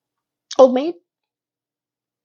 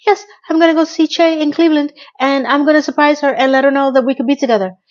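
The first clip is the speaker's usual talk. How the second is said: thrilled Miranda; 6 semitones higher than usual. Retold or imitated. Miranda voiced thrilled plan.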